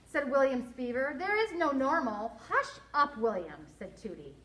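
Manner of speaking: expressive storybook narration with lively dialogue; story read-aloud. A narrator's reading. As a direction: read it to children, acting each line.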